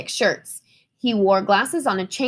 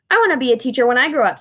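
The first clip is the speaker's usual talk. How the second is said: eager; 4 dB louder, much faster than usual. Acted. Lily declares her dream, excited.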